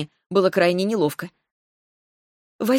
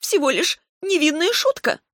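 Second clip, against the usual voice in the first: high, sing-song feigned innocence; mock innocent; 10 semitones higher than usual. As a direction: play it off sweetly. (Терла притворно невинна перед Ревелом)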